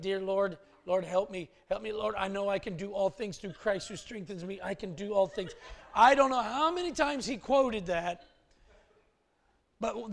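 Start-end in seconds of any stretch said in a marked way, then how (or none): 0.0-5.5 put-on child praying. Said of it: "He's like".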